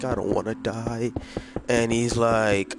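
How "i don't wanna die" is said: scared murmur. Retold or imitated. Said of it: "I'm here shaking like".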